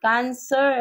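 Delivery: exasperated retry. Real, not acted. Tarot reader finally getting the sign name out, high and exasperated. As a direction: pitch "Cancer" way up in frustrated self-correction. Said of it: "ba't parang nabubulol ako".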